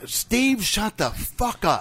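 high, joking shout at a friend; playful yell. Real, not acted. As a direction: yell it to cut him off, half laughing. Cohost telling Steve to shut up.

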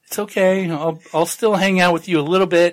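kindly host. Retold or imitated. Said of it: "is like".

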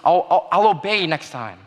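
mild, lightly acted childlike pleading; retold begging. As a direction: plead a little, re-enacting your desperate promises. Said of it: "I begged them".

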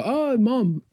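high-pitched fond "oh", retold; wistful call. Speaker recalls seeing rainbows and greeting mom, wistfully. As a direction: imitate calling out to mom above.

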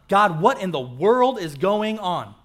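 loud, slow, bewildered plea; exasperated cry to God. Retold or imitated. Preacher acting out a bewildered believer's loud plea. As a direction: throw up your hands at God in disbelief.

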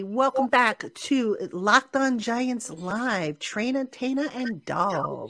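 slow, drawn-out smooth welcome; smooth show intro. Real, not acted. Host welcoming listeners back to the show, smooth delivery. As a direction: stretch the welcome out smoothly, easing down at the end. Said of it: "I was trying to sound smooth".

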